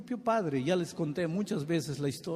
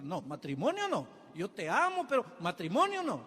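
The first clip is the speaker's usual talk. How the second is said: mock backing out; 4 semitones higher than usual. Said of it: "Ahí él da un salto atrás".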